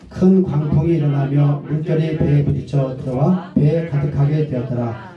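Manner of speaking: measured Bible reading voice; steady, reverent reading of scripture. Acted. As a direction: read the verses with solemn care.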